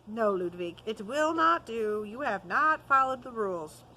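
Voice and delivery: a hint of a strict teacher saying no; stern rebuke. Master tells Ludwig his work breaks the rules, stern.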